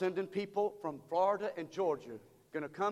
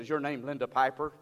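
disguised voice; 6 semitones lower than usual. Retold or imitated. Danny pranking his sister as collector, lightly disguised. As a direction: lower put-on collector voice. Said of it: "Danny disguised his voice".

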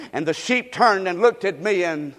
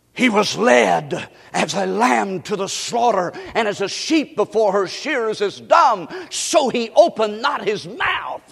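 preached scripture. Acted. Preacher reciting Isaiah to the congregation, solemn proclamation. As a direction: proclaim the verse like a preacher in full flow.

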